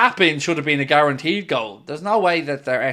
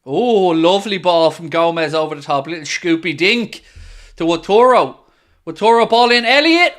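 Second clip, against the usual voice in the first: excited; 5 dB louder than usual. Real, not acted. Excited live commentary of attack.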